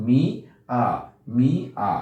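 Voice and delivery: মি and আ said apart, আ as a nasal vowel; split syllables. Shown as a demonstration. Teacher sounds out the word for students, মি and আ separated by pauses. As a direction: break it into মি, pause, আ. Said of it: "অ এ চন্দ্রবিন্দুর মতো আসে".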